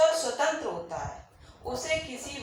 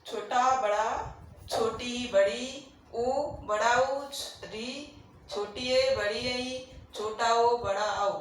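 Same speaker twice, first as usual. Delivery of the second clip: slow vowel recital; slower than usual. Shown as a demonstration. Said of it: "और आप देख लीजिए".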